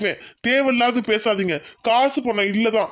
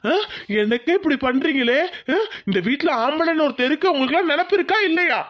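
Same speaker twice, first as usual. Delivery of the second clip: angry outburst. Acted. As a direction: build to a furious demand. Husband shouts at family. (கோபமான வெடிப்பு, வேகமாக)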